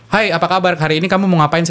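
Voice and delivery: quick, bright host greeting. Shown as a demonstration. Radio host demoing a fast speed rate, quick delivery. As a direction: rattle it off like a fast presenter. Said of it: "Ini kan speed dengan, dengan lebih cepat gitu".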